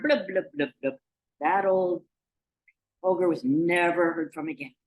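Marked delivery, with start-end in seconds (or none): 0.0-1.0 bubbling sinking noise. Acted. Troll sinking into the burn.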